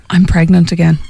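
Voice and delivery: cough, then a put-on poorly call; mock-ill excuse after a little cough; fake sick voice. Shown as a demonstration. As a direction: pretend to phone in sick. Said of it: "Lady, sick voice".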